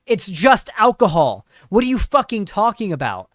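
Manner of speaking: exasperated outburst. Retold or imitated. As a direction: snap at the wine snob, exasperated. Acted taster losing patience.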